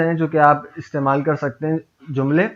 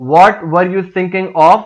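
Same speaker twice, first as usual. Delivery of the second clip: louder, sharper "What were you thinking of?"; scolding; 2 semitones higher, 5 dB louder, much slower than usual. Shown as a demonstration. Teacher scolding a worker who skipped the job, loud. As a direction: snap "What" at them like a harsh scolding. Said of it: "Depending on the intonation".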